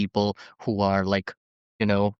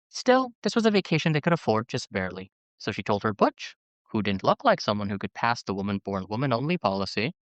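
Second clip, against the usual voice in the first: measured memoir reading, phrases starting raised; reading aloud. Acted. Host reading a memoir excerpt to co-hosts, measured narration. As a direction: read it out like an audiobook excerpt.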